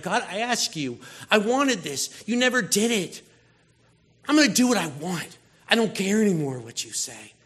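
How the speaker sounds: mildly heated complaint to God; mock defiance. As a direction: protest like someone let down by God.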